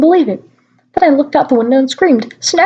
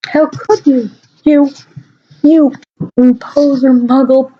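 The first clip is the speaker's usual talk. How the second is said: mock shout; 3 semitones higher, slower than usual. A narrator's reading. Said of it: "he shouted".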